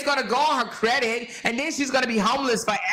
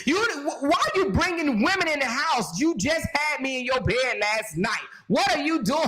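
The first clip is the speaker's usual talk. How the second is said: mock jealous girlfriend; 3 semitones higher than usual. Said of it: "she like".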